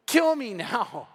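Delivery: very slow, stretched mock-desperate plea; drawn-out plea. Moses begging the Lord, exaggerated desperation. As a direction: wail it slowly, hammed-up despair.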